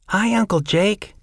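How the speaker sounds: put-on high, bright child's voice; little boy Jeffrey. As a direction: chirp it like a small boy greeting his uncle. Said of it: "little Jeffrey said".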